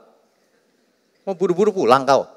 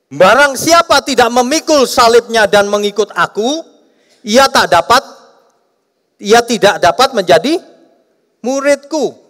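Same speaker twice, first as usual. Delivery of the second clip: raised, loud reading of the verse; scripture reading; 9 semitones higher, 5 dB louder than usual. Acted. Preacher reading a Bible verse to the congregation, raised and declaiming.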